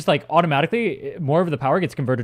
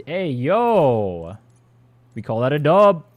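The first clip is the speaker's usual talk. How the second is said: put-on louder, hyped-up old streamer voice; 3 dB louder, much slower than usual. Shown as a demonstration. Trying his old voice on stream, loud hype. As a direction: slip back into the old hype greeting. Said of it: "I'm trying to, like, go back into my old voice".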